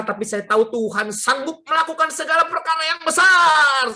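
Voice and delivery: re-enacted impassioned prayer; fervent declaration. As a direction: proclaim faith to God with growing force. Acted bold prayer, building to climax.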